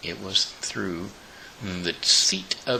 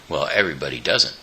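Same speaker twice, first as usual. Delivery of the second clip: fast, loud, annoyed retort; quick loud grumpy rhinoceros; angry snap; 2 semitones lower, 5 dB louder, much faster than usual. Acted. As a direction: bite the words off quickly, irritated. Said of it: "said the angry voice".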